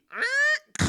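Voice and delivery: loud, high creak then a bang made by mouth; imitated door slam. Showing how she closes the door, noisy imitated slam. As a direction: mimic a slammed door vocally. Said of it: "closing the door, slamming it hard".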